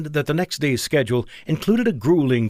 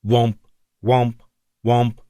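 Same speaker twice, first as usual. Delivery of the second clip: alarm womp; slower than usual. A narrator's reading. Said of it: "Even the alert sounds wrong".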